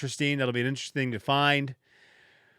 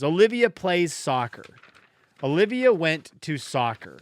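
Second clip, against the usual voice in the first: reading aloud; 2 semitones higher than usual. Shown as a demonstration. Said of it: "I'll read it to you".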